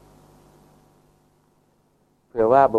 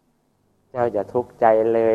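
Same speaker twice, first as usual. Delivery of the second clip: gentle consoling words; much slower than usual. Acted. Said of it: "เป็นคำพูดที่เพราะนะ".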